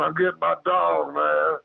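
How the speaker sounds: high-pitched, insistent retold warning. Retold warning to creature in tree.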